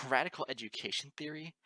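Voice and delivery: helpless giggle; giggling. A narrator's reading. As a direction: laugh through the words. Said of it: "Moon Dancer giggled helplessly".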